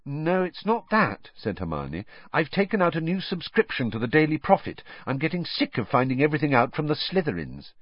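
a light touch of an eager schoolgirl; Hermione voice. Acted.

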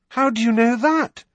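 high, loud amazement; astonished. A narrator's reading. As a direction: ask in disbelief. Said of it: "he asked her, astonished".

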